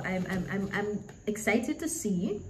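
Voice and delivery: tripping over the first words; stuttering. Real, not acted. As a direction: stammer out the start. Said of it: "I'm stuttering".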